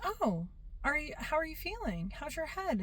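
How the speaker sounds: put-on a touch of sweet concern for a child; mock concern. Teacher checking on child.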